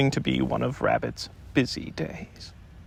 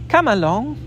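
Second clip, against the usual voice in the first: higher, louder call; 8 semitones higher, 4 dB louder than usual. A narrator's reading. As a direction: call up into the tree. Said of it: "called Christopher Robin".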